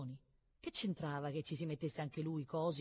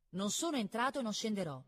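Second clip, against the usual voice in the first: heated, higher-pitched retort; defiant boy's raised-pitch refusal; 6 semitones higher, 3 dB louder than usual. A narrator's reading. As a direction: answer back with equal indignation. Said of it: "disse Cosimo con pari calore".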